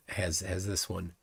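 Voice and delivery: talking through a yawn. Real, not acted. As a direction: yawn mid-sentence. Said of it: "sorry for the yawn there".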